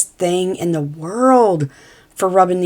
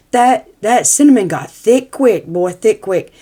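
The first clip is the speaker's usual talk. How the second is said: excited; 3 semitones higher, 5 dB louder than usual. Real, not acted. Exclaiming at thickened cinnamon.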